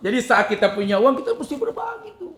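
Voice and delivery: high, loud words through laughter; laughing. Real, not acted. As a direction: laugh while you say it.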